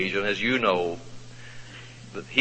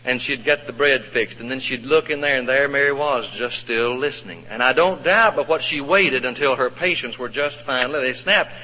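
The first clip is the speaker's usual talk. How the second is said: ordinary talk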